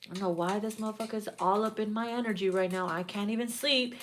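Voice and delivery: soft, fast grumble to yourself; softly grumbled, quick; muttering to self. Retold or imitated. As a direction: mutter it under your breath. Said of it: "talking to yourself".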